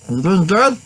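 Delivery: a lighter hint of the high alien voice; Stitch voice. Checking on the mascot with a touch of Stitch voice. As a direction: ask it like the little alien. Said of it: "I did my Stitch voice".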